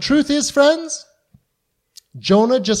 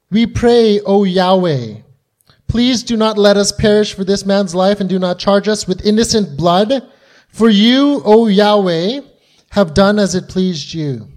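pleading prayer; 3 dB louder than usual. Acted. Preacher re-reads sailors' desperate prayer.

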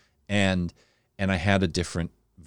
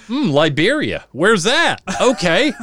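put-on curious kid; 11 semitones higher, 7 dB louder, slower than usual. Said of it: "And I'm like".

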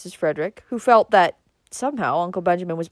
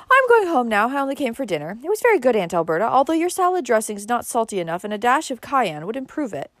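higher-pitched character voice, lively; lightly voiced departing niece; 6 semitones higher than usual. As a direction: lightly play a frank dinner guest. Valancy speaks at dinner.

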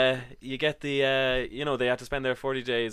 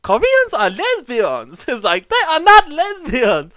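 loud, high imitated Asian accent, slightly Borat; hammed-up indignation in a mock Asian accent, laughing between phrases; 10 semitones higher, 9 dB louder than usual. Date denying Koreans are lesbians, indignant mock Asian accent. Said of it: "What a bit Borat there".

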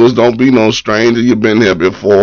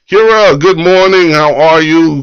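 upbeat host welcome; 5 semitones higher than usual. Real, not acted. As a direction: pull them into the party. Greeting viewer.

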